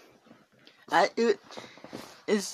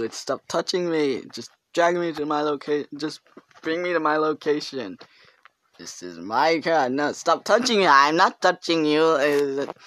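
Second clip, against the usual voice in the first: lightly acted argument between driver and passenger; a mild back-and-forth of rider and driver; two voices bickering, only lightly put on; voicing both sides; 4 dB louder than usual. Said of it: "I'll voice over it for you".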